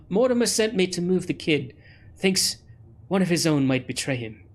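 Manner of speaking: slightly British, very polite delivery; a hint of a polite British accent. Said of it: "I think I went a little British".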